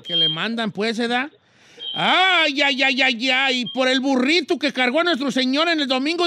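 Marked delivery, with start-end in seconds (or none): 1.9-3.6 loud drawn-out mock wail; hammed-up tearful outburst; mock wailing lament. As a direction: wail theatrically, calling on the saints. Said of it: "pasa usted el llanto".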